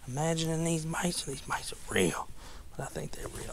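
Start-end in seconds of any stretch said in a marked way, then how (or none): 1.2-3.5 whisper. Real, not acted. Quiet aside while fishing.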